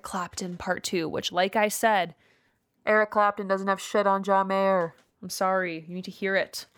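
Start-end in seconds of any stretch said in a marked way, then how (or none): 2.8-4.9 muffled. Real, not acted. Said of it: "you muffled your, uh, voice when you were trying to project".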